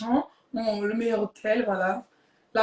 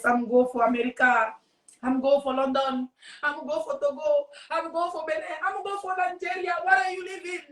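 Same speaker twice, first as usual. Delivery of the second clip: a list climbing steadily higher; climbing boast; 3 semitones higher than usual. Acted. Bragging about travels to the caller, pitch rising by steps. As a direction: build each destination up in pitch, from usual to high.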